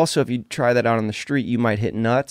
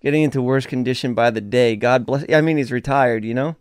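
lightly done Irish accent, mocking Connor; a hint of Irish brogue, reading out Connor's jab at Cormier. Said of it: "I can't help but do the Irish accent".

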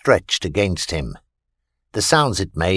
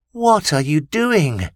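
slow, higher questioning voice; uneasy alien; 7 semitones higher, slower than usual. A narrator's reading. Alien Vita asks Christopher what he is doing, uneasy and slow. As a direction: ask slowly, sensing betrayal.

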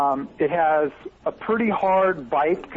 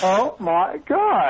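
put-on Valley Girl accent; 4 semitones higher, much slower than usual. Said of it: "my Valley Girl accent".

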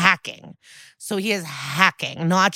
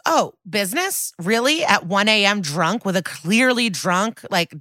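incredulous; 3 semitones higher than usual. Retold or imitated. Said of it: "And Barbara pushes".

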